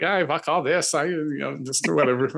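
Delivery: put-on a faint, half-hearted Irish accent. Host imitating a drunk Joyce at the bar, weak mock Irish accent. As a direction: lightly play a fed-up Joyce with a barely-there Irish lilt. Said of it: "my Irish accent here".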